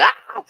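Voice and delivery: mock panicked yell; a hammed-up yelp of fright; retold scream. Boy retelling the snake on his leg, mock yell. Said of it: "I'm freaking out like".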